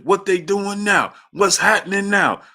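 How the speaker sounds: put-on old uncle begging to know the formation; imitating blind uncle. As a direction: badger for every play.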